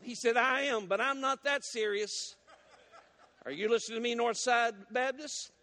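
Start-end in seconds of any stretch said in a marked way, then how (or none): 0.3-2.3 higher, slow, through a laugh; laughing punchline. Acted. Deacon refusing the prayer to the pastor, laughing.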